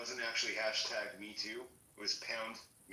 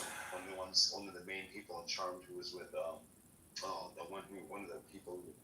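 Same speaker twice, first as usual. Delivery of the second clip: talking around a toothbrush; words garbled by brushing teeth; while brushing teeth. Real, not acted. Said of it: "sorry, I'm brushing my teeth".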